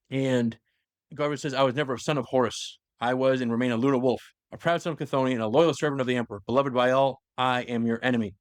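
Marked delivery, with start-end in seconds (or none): 1.5-8.3 mildly theatrical oath of vengeance; defiant recited vow. Retold or imitated. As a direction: declaim it as a solemn vow to an enemy. Recites Garviel's declaration of enmity.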